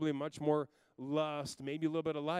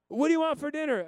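put-on high, loud child's question again; higher, louder little girl asking; little daughter; 12 semitones higher, 10 dB louder than usual. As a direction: repeat it in the kid's voice.

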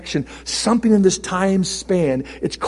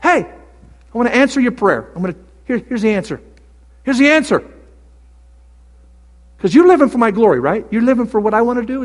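God answering; 5 semitones higher, 4 dB louder, faster than usual. Retold or imitated. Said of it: "And he said to me".

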